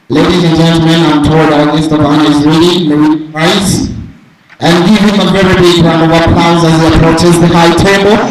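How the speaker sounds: formal MC announcement, projected; event announcer. Real, not acted. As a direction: announce the guest like an emcee.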